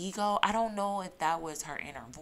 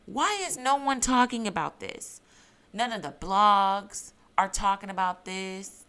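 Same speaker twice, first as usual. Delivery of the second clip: outraged emphasis; 6 dB louder than usual. Real, not acted. Outraged question to viewers.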